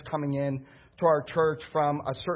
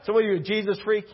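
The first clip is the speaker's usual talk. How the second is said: mocking jab; 3 semitones higher, faster than usual. Pastor taunting the deacon at the counter, mocking. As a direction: needle him with a scoff.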